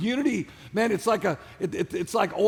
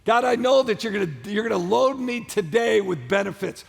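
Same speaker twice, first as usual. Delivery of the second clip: passionate prayer. Shown as a demonstration. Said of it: "with passion".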